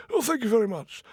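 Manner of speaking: high, fussy royal voice; a delighted old king thanking the cat; pompous king. Acted. King thanking the cat for rabbits, high and delighted.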